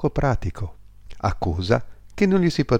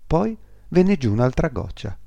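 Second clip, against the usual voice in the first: ordinary delivery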